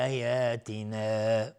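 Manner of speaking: آیاتنا with the alif held two beats; two-beat madd. Shown as a demonstration. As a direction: hold the long vowel in آیاتنا briefly. (کشش دو حرکتی در آیاتنا)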